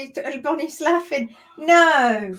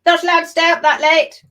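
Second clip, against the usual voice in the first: bossy partner; 5 semitones higher, 9 dB louder than usual. Retold or imitated. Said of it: "Be like".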